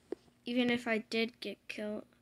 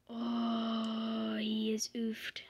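whisper; much slower than usual. Real, not acted. Whispered game commentary.

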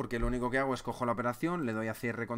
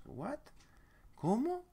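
What? soft then a much higher ¿Cómo?; mock shocked disbelief; 12 semitones higher, 3 dB quieter, much slower than usual. Trader sees the loss, mock disbelief. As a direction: act shocked by the ticket.

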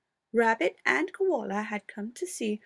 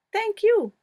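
spluttering; 11 semitones higher, 6 dB louder than usual. A narrator's reading. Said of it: "he spluttered".

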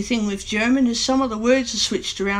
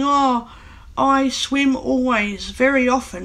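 slower, drawn-out learner's English; imitating non-native speaker; 3 semitones higher than usual. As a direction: lightly mimic a German speaker's word order. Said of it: "you hear some German-speaking English people saying".

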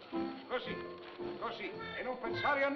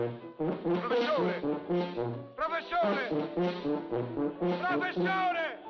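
calling across the room; 8 semitones lower, 3 dB louder, slower than usual. Acted. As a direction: call him, drawing it out. Calling out to the professor.

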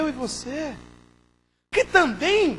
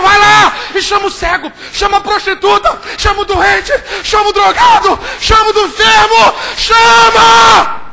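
booming, louder repeated orders; God's loud command; 5 semitones higher, 13 dB louder than usual. Acted. God ordering the preacher to call the lost, booming. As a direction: command it like heaven sending you. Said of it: "Quando Deus tá falando".

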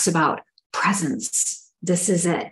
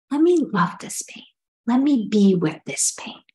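tender comforting. Retold or imitated. Speaking lovingly to her own sore shoulder, tender. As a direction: comfort the hurt like a loved one.

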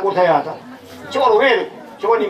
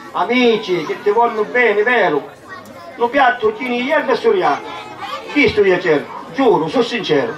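swelling, heartfelt poem recital; theatrical swelling poetry reading; 2 semitones higher than usual. Acted. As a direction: declaim the verses to the audience.

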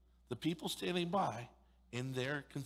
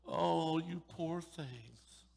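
exaggerated sympathetic coo; mock pity; 3 semitones higher, much slower than usual. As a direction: coo it like a condescending comforter. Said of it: "showing up and going".

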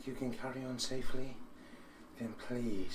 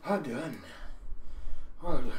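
excited cheer; 3 semitones higher, 9 dB louder than usual. Real, not acted. Workout ends, coach cheers finish.

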